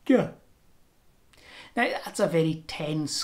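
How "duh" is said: a short dental duh, tongue on the teeth; D-like sound. Shown as a demonstration. Teacher showing the D-like sound. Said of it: "More D like".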